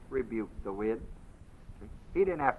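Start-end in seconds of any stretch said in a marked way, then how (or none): 0.1-1.0 softer, calm command; calm it down without raising your voice; quiet rebuke. Retold or imitated. Master rebukes the storm, quiet and calm.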